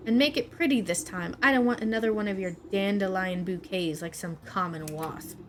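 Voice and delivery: a lightly voiced scornful queen; haughty queen. Bee queen scolding the beekeeper, scornful. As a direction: sneer at the servant's cheap flowers. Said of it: "A shrill voice pierces the meadow".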